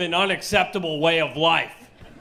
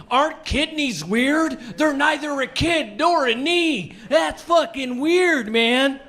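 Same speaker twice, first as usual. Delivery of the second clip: stoned surgeon; 4 semitones higher than usual. Pretend. Stoned surgeon marvelling at body.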